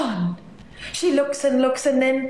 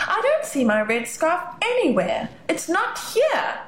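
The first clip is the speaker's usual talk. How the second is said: worried; 7 semitones higher than usual. Acted. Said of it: "Navi sounds worried".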